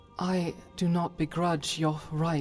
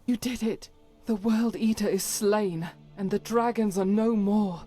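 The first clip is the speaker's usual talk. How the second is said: higher-pitched, exultant victory cry; triumphant; 5 semitones higher than usual. Acted. Companion hailing the hero who slew the World Eater, triumphant. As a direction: proclaim the triumph with rising excitement.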